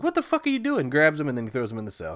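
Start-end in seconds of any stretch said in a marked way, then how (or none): 0.0-0.9 much higher, louder mock yell; hammed-up outraged shout; mock furious sheriff. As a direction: shriek it at the intruder. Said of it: "the sheriff's like".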